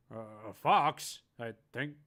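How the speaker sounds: loud, happy shout; elated yell. Acted. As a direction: yell it out, thrilled. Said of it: "they yell".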